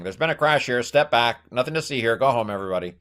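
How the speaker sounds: lightly voiced police crowd control; a hint of a cop moving onlookers along; police officer. Police line to onlookers at a crash, lightly acted officer. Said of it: "there's a police line saying".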